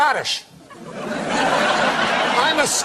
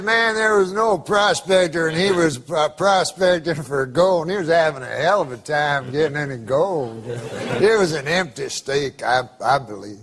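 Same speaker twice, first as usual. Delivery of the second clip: put-on old prospector; 7 semitones lower than usual. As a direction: tell it like an old Southern prospector. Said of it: "I can tell by the accent".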